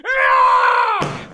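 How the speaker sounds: long, loud, high yell; drawn-out war cry; battle scream. Acted. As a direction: scream as you charge.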